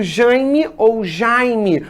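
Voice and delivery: slow "Jaime" nasal "jãi", then oral "jai"; two pronunciations contrasted. Shown as a demonstration. Teacher recalls the text's example, contrasting both pronunciations slowly. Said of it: "aquele exemplo que ele deu".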